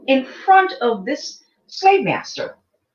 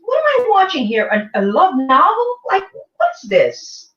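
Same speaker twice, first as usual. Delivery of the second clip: incredulous; 4 semitones higher than usual. Retold or imitated. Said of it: "I'm like".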